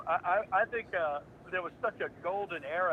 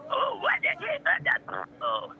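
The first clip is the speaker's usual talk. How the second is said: much higher, slow, stretched cartoon yelp; 4 dB louder, much slower than usual. Voice actor showing off a startled cartoon character, a high stretched yelp.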